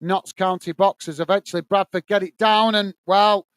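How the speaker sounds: steady live match commentary; play-by-play. Acted. Commentator calling the match for stream viewers, play-by-play. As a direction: call the action as it unfolds.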